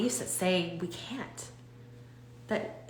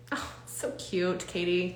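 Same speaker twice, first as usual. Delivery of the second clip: soft fond cooing; 4 dB quieter, slower than usual. Shown as a demonstration. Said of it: "if we just talk to ourselves like this".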